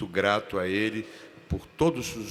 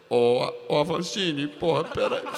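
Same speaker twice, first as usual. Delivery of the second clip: higher, loud, laughing protest; urgent plea; 8 semitones higher, 5 dB louder than usual. Retold or imitated. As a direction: beg him to wait. Actor begs the director to wait.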